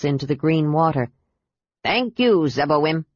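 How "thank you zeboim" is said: captain calling out to the sea goddess; a mild call of thanks. Acted. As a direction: lift the voice out over the water. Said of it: "he called out".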